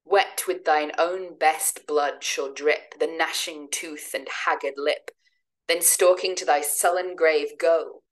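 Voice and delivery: slow, measured recital of verse; poem reading. Acted. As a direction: read the lines like a dark poem. Reads Byron's vampire poem aloud.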